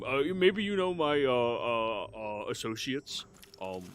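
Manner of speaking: nervous rambling full of ums, pitch jumping about; halting, over-keen flatterer; flustered underling. Acted. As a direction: babble eagerly to please a sovereign. Flustered flatterer explains himself to ruler.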